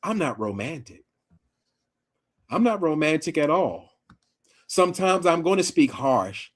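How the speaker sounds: retold calm voice, a little softened; calm, frank admission. Man telling a woman he's not romantic, imitated calm voice. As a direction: imitate him laying it out calmly, in measured phrases. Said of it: "sat there with a calm voice".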